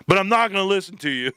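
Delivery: retold punchline tipping into a laugh; breaking into laughter. Quoting the Ape Father's punchline, starting to laugh. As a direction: crack up as you finish.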